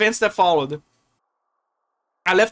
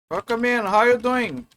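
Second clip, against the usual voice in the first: eating cereal. Real, not acted. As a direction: mouth full of cereal. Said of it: "Sorry, I'm eating cereal".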